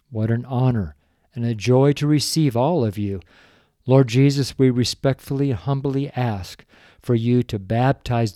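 earnest, humble prayer voice. Acted. A host praying for the listeners, humble and earnest.

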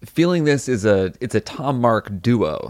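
ordinary talk, nothing marked

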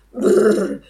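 loud shuddering brrr; a cold shudder of fear; shivering brrr. Acted. Shivering at the thought.

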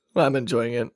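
ordinary delivery

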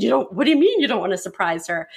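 quick, incredulous husband's question; puzzled pushback, rattled off fast; taken aback. Retold or imitated. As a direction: fire it back in disbelief, pitch jumping midway. Husband acted reacting to refusal.

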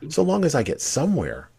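put-on high-pitched, earnest girl; explaining Alice. A narrator's reading. Alice adding an explanation to the cat, high-pitched. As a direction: pitch it well up, explaining yourself. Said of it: "Alice added as an explanation".

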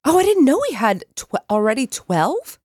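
sudden high surprised jump. Real, not acted. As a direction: caught off guard, pitch leaps up. Learns backlog count.

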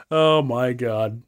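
fighting back laughter; trying not to crack up; stifled giggles. Real, not acted. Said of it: "keep a straight face".

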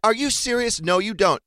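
high, loud incredulous retort; mock disbelief. Retold disbelieving reply to daughter.

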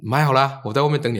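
exasperated scolding. Retold or imitated. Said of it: "我说：".

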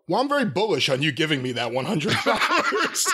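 laughing through the line; mock corporate spin, giggling; laughing mock pitch. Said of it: "mock bullish reply".

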